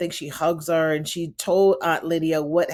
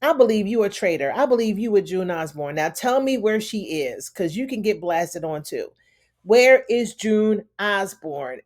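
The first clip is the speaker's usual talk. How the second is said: angry demand. Retold or imitated. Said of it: "She's just like".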